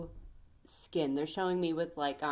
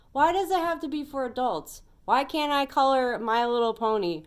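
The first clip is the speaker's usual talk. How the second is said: ranting; 3 semitones higher, 5 dB louder than usual. Real, not acted. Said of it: "kinda going on a rant".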